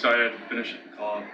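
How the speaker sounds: winded from running; breathless after running in; out of breath. Real, not acted. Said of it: "Can't tell I ran here".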